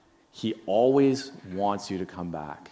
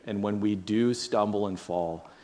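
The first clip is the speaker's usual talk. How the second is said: prayer. Real, not acted. Leads a prayer.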